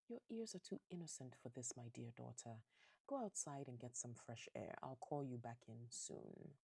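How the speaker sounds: lightly acted tender dad; gentle father. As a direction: soothe a beloved daughter. Father gently sends daughter out.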